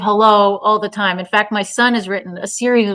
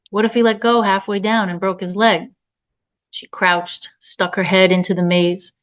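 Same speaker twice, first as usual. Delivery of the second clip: measured literary reading voice; story narration. A narrator's reading. Author reading her tense story aloud, narration. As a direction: read the story evenly.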